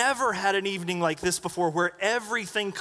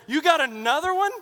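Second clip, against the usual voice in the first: excited call; 9 semitones higher, 6 dB louder than usual. Retold or imitated. Greg calls from the dock.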